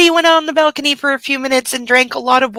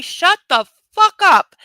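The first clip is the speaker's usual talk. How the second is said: slow, louder, higher fed-up shout at the ceiling; 7 semitones higher, 5 dB louder, slower than usual. Real, not acted. To the neighbours yelling upstairs late at night, a slow, loud, higher fed-up shout. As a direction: bark it out slowly at the noisy neighbours.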